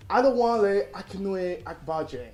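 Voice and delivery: Adewale Akinnuoye Agbaje pronunciato lentamente, sillaba per sillaba; careful full name. Shown as a demonstration. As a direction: say Adewale Akinnuoye Agbaje slowly, syllable by syllable, with weight. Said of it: "Okay, okay, here we go".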